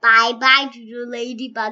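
a tiny bug saying bye-bye; ladybug voice. Pretend. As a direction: say it like a little ladybug. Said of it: "I'm gonna say it like a ladybug".

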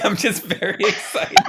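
high excited squeal; excited squeak. Real, not acted. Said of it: "that little woo kinda just squeaked out".

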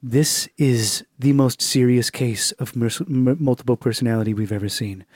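grave, measured clinician; serious expert. Retold or imitated. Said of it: "half the people are like".

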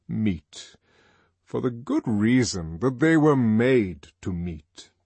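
put-on measured, lecturing older man; a hint of the lofty controller; controller's voice. Controller lecturing students, lightly voiced.

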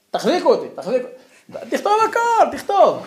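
laughing, high, loud fake fury; hammed-up rage breaking into laughter; mock hold-me-back rage. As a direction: play the furious man who must be restrained, cracking up.

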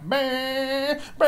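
very high imitated dirt-bike engine; long high buzz like a revving dirt bike; dirt-bike whine. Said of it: "but a fucking dirt bike".

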